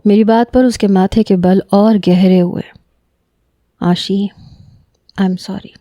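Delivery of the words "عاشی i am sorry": very soft, tender apology; tender, hushed sorry to his cousin; lovingly. Acted. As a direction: coax her gently with love. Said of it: "بڑے پیار سے کہا".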